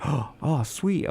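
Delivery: imitated excitement. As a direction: mimic her pleased surprise with a gasp. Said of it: "She's like".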